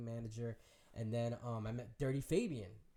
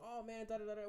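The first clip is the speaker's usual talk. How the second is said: pitched up, gushing filler; high excited chatter; 10 semitones higher than usual. Retold or imitated. Fan gushing at meeting him, high. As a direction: rattle off the da-da-das up high. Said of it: "He's like".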